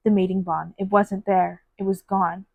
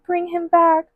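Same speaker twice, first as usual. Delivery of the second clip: high, half-voiced mock scream of grief; high pleading cry, not shouted; retold anguished scream; 9 semitones higher, slower than usual. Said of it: "she just kept screaming".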